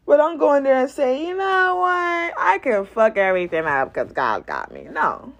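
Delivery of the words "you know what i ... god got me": hammed-up smug declaration; mock overconfidence. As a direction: mimic a cocky believer, stretching the words. Mock overconfident believer, drawn out.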